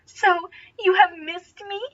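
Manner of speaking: high, slow, sweet lady's voice; sweet pleasant voice. Acted. Starsberry greeting Legolas in a sweet, pleasant voice. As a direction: coo it sweetly to him. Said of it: "her voice so sweet and pleasant".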